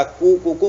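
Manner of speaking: lightly imitating a rooster's ku ku ku; a quick mimic of a cock crowing ku ku; rooster call. Shown as a demonstration. Teacher mimicking a rooster again, lightly. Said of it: "बोलता है ना".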